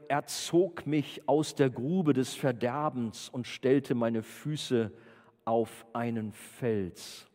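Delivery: slow, deliberate psalm reading; measured scripture reading. Acted. Preacher reads a psalm to the youth group, measured reading. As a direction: let each phrase stand, slowing to the end.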